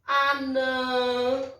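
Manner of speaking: anã with the nasal final ã held; nasal demo word. Shown as a demonstration. Teacher giving tilde example anã to pupils, nasal ã. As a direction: model anã, last vowel through the nose. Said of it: "Uns exemplos de som nasal".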